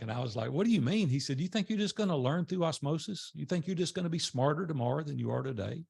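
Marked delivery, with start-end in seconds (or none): 0.5-1.1 high, louder smart-aleck comeback. Retold or imitated. New member challenging the group leader, smart aleck. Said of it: "it was kinda smart aleck". 1.4-5.8 higher-pitched, incredulous rhetorical challenge; mock challenge. Group leader to a member who dislikes reading, challenging.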